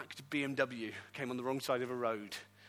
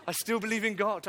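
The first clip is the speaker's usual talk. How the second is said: louder and higher, proclaiming; declared loudly; 6 semitones higher, 7 dB louder than usual. Acted. Preacher repeats his answer to the church, proclaimed. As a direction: ring it out as a declaration.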